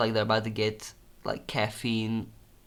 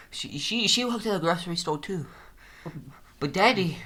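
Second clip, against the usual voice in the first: higher, strained pretend confession; hammed-up emotional patient; 7 semitones higher than usual. Patient telling therapist about father, strained higher voice. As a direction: overplay the sad backstory. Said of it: "playing the patient".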